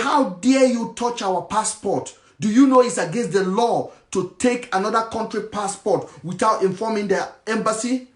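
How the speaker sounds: mock the officer's outrage; angry official. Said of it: "He was angry".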